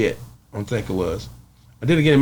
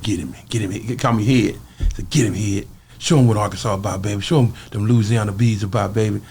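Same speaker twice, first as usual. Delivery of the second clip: partner egging on; 4 semitones lower than usual. Retold or imitated. Partner urging him on low.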